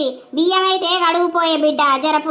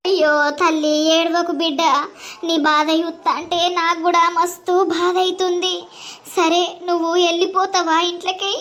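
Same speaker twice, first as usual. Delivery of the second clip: put-on calm the girl down gently; lightly voiced grandmother. Grandmother comforts.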